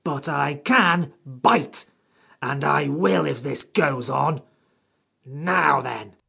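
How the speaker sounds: high, slow, cross creature voice; menacing little creature, drawn out; angry creature threat. A narrator's reading. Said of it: "spoke very angrily".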